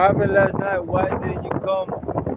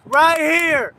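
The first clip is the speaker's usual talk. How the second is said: angry command; 4 semitones higher, 3 dB louder than usual. Real, not acted. Ordering her to confront husband.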